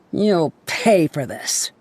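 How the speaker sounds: low, slow, menacing promise; slow threat. Acted. Angry researcher threatening him, slow and low. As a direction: drag out the threat coldly.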